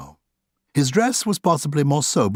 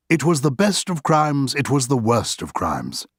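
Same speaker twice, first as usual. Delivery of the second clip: Oscar's take on the line; 3 semitones higher than usual. Acted. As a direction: savour it like a witty host. Oscar quotes the opening line.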